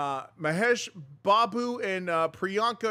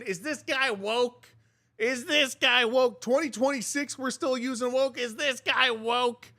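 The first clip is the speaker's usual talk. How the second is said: mocking commenter; 3 semitones higher than usual. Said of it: "look at the first comment in here is saying".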